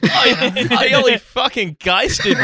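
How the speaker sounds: mock posh Australian-ish. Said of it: "It just sounds Australian".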